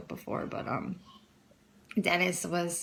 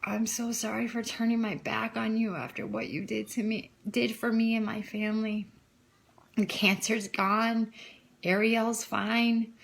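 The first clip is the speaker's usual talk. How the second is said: slow, whispered retelling of a tearful prayer; retold tearful prayer; 3 semitones higher than usual. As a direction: half-whisper the prayer as if crying. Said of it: "bawling my eyes out and saying".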